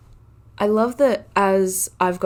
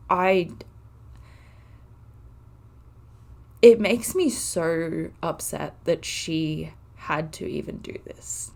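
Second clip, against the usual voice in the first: emotional; slower than usual. Real, not acted. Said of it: "I'm sorry if I get emotional".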